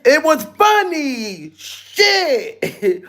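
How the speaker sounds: slow, lightly voiced mimic of the girl; imitating Willow. Streamer mocks the girl's clip, slow imitation. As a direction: drag it out, mocking her clip. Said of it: "Where did she get the y'all niggas from".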